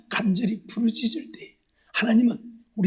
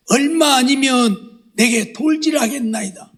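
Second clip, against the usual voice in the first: crying out; 3 semitones higher, 3 dB louder, slower than usual. Retold or imitated. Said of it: "모세가 여호와께 부르짖었다고 했는데".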